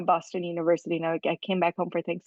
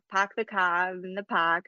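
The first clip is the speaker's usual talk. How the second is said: put-on Boston accent; slower than usual. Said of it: "everyone says".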